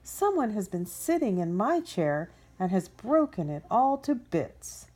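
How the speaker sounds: a hint of a wailing little cub; wee little voice. Baby bear upset about his broken chair, mild wail. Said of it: "in his wee little voice".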